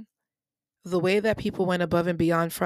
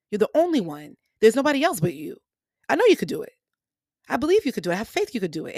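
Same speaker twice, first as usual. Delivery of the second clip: building prayer that grows louder and higher; pleading prayer; 3 semitones higher, 4 dB louder, faster than usual. Retold or imitated. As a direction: beg the Lord with rising urgency, then ease off. Retold prayer, begging God.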